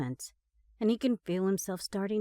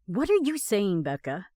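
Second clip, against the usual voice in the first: a sharp, louder bark; 6 dB louder than usual. Acted. Annoyed driver barking at girlfriend, sharp bark. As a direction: snap the question at her. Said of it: "Ross barks".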